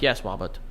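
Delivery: "Robert" with W for R, like "Wobert"; imitating a kid who says "Robert" as "Wobert"; can't say R's. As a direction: say "Robert" with soft W sounds instead of R's. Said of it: "who couldn't say his R's".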